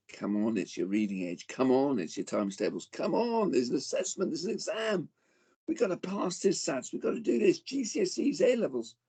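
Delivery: pushy school voice. Retold or imitated. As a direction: nag the kids harder with each exam.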